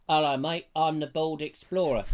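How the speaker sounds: put-on lightly done Cornish accent; a hint of Cornish, imitating an impostor; mild mock Cornish voice. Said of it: "in a Cornish accent, apparently".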